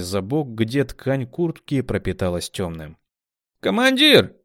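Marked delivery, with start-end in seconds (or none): 3.6-4.3 high call, loud. A narrator's reading. Rat calling over the commander, high call. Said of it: "позвала крыса".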